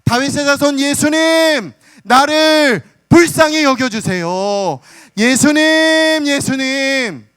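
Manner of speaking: loud, high, very slow drawn-out pleading cry; a blind man crying out to Jesus over the crowd; unstoppable loud cry. Retold or imitated. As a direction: stretch each 예수님 out in a desperate cry. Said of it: "말릴 수 없을 정도로 그는 큰 소리로 외쳐댑니다".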